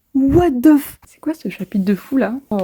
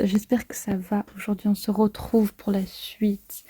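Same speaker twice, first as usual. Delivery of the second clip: whispered, slower intro; soft whispered greeting; 10 dB quieter than usual. Real, not acted. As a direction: keep it hushed so no one hears. Hushed intro, parents at home.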